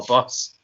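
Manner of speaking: BUS in a mixed Scottish-Scouse accent; own accent. Shown as a demonstration. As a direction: show off your Scottish-Scouse way of saying BUS. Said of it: "the way I say certain words".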